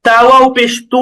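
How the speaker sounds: final "তু" held long; one-alif stretch. Shown as a demonstration. Teacher giving another pesh example, "তু" stretched. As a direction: draw out the closing "তু". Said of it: "একালিপ টান".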